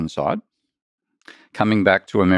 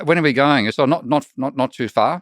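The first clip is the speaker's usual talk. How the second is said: lightly voiced laid-back Aussie bloke, higher; Aboriginal mates chatting; 5 semitones higher than usual. Retelling a TikTok, a hint of an easygoing Aussie mate. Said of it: "he goes up to another Aboriginal mate and says".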